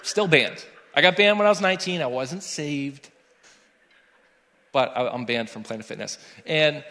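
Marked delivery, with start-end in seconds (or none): 0.0-2.0 emphatic confession. Real, not acted. Confessing the ban to congregation.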